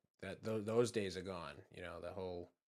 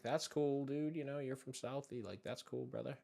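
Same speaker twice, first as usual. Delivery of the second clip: higher-pitched, mock-agreeable reply; placating; 5 semitones higher than usual. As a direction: placate the tough guy, lightly acted. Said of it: "I'm just over here like".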